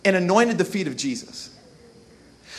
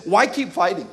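discouraged mantra. Retold or imitated. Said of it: "the mantra for being discouraged".

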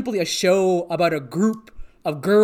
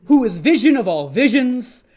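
mock reverent; 2 semitones higher than usual. Mock reverent eyeball praise.

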